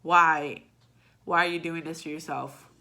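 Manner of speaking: exasperated, with a sudden loud why; asking her old self, fed up; scolding past self. Retold or imitated. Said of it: "I look back at that person and I'm like".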